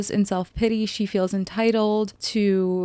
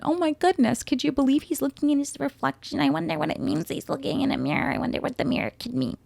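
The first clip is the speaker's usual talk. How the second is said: higher, breathy mock wonder; sarcastic mock awe; 6 semitones higher, 4 dB quieter, faster than usual. Real, not acted. Podcaster mocking the mirror symbolism, sarcastic awe. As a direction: gush over the obvious like it's profound.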